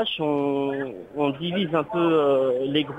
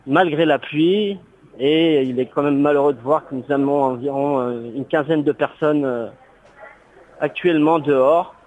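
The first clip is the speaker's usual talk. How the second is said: radio show caller; 4 dB louder than usual. Real, not acted. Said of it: "On a un auditeur à la, à l'antenne".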